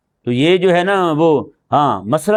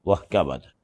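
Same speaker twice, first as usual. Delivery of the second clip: low, soft mock jeer; mocking onlookers; 11 semitones lower, 7 dB quieter than usual. Preacher imitating onlookers jeering at a man whose ablution broke. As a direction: sneer it under your breath like a teasing bystander.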